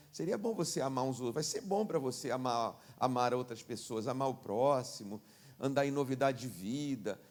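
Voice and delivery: mild pastoral suggestion, not a command; soft persuasion. Retold or imitated. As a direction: coax gently as if only suggesting. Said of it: "querer te convencer".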